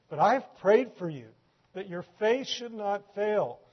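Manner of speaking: earnest exhortation. Acted. The Lord warns and reassures Simon, earnest and emphatic. Preacher voices Jesus's charge to Simon.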